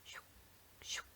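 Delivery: two soft, separate "shyuk" swishes; spoken swishes. Shown as a demonstration. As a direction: voice two quick pen strokes. Imitates two crossing strokes.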